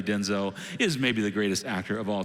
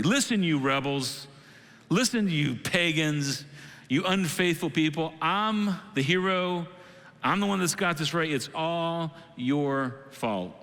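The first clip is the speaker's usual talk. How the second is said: mock self-righteous address, pitched up; lightly acted holier-than-thou leader, deliberate and emphatic; morally superior; 4 semitones higher than usual. Moses addressing rebels and pagans, mildly superior scolding. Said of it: "He puts himself in the place of moral superiority".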